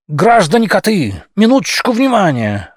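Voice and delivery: loud call for attention; shouting. Acted. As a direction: shout to the crowd. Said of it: "вскричал Мухлюин".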